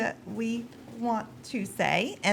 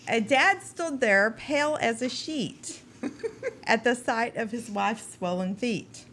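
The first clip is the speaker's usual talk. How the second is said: limerick reading; slower than usual. Acted. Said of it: "A limerick".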